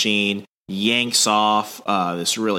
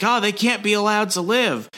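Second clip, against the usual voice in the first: much higher, put-on voice; hammed-up deranged royal; mock prince; 11 semitones higher than usual. Prince pointing gun at someone, much higher put-on voice.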